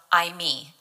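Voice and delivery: "I me" said as two clear Greek syllables; Greek pronunciation. Shown as a demonstration. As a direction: pronounce "I me" carefully as a Greek word. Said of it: "it's pronounced".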